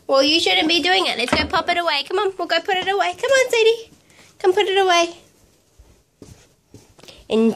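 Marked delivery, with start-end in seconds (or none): 0.1-5.2 high, chivvying mum voice. Real, not acted. Coaxing toddler to tidy away.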